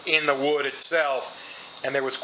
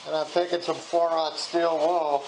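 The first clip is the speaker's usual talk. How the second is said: talking through mask. Real, not acted. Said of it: "I'm talking through my mask".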